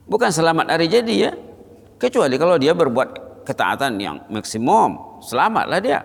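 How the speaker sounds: rising fervent preaching; emphatic warning. Acted.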